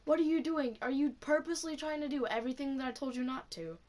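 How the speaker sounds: mild mock yell; retold yelling. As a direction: imitate a scolding teacher without shouting. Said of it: "he yells at me and says".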